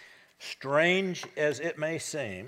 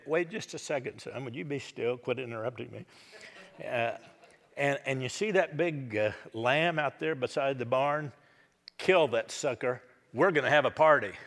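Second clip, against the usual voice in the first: eager father; 3 dB louder than usual. Acted. Father hushes son, orders feast.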